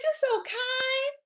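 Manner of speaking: high, slow wailed thanks; tearful gratitude. Retold or imitated. Struggling mom thanking her, high tearful gratitude. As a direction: squeal it slowly, overcome with gratitude. Acts out the grateful mother.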